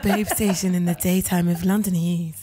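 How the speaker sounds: mock seductive phone greeting; sultry voice.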